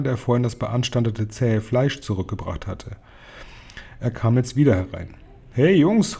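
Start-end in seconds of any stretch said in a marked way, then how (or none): 5.5-6.2 higher-pitched hail to the lads; storybook call with a swooping pitch. A narrator's reading. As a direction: call out to your mates, lightly raised. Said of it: "rief er".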